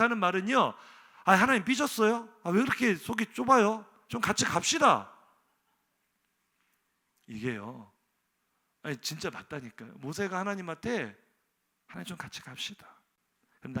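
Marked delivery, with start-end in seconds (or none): 1.2-5.1 1 teasing coax. Acted. Moses teasing God as sulking. 11.9-13.0 1 soft plea. Acted. Moses pleading softly.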